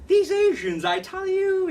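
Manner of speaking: high, mocking British accent. Audience member complaining about Asians, very British accent. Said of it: "in a very British accent".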